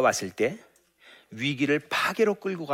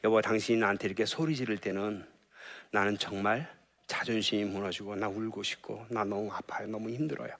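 much softer, fading into a hurt near-whisper; hurt confession; 6 dB quieter than usual. Retold or imitated. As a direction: confide the pain quietly. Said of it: "이게 나를 전달할 수 있어야 돼요". (소리 지르는 남편에게 아픔을 조용히 털어놓는 아내)

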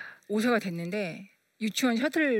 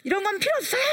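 high, louder imitation of the boy's outburst; child's defiant cry; 11 semitones higher, 4 dB louder, faster than usual. Son throwing off the golden helmet cloth, defiant cry. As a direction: fling the words like he flung the cloth.

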